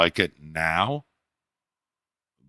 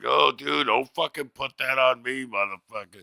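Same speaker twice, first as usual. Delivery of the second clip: mock indignant protest; 7 semitones higher than usual. Retold protest to bodega guy.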